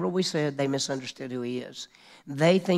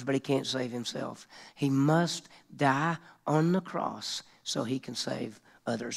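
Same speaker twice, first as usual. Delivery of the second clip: ordinary talk, nothing marked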